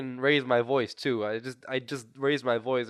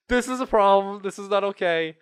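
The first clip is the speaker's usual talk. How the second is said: mock dread; 3 semitones higher, 5 dB louder, slower than usual. Player begging the game not right now, mock panic. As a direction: plead in hammed-up dismay, drawing out the no's.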